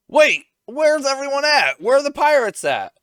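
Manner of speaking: high, loud retold alarm; mock panicked shout. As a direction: demand to know, waking in alarm. Retold mayor waking up alarmed.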